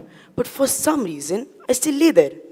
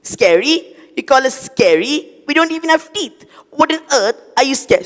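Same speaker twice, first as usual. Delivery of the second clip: lightly voiced cockroach, higher, incredulous; indignant cockroach; 6 semitones higher, 3 dB louder than usual. Cockroach scoffing at being called scary, lightly incredulous. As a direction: toss the word back in disbelief.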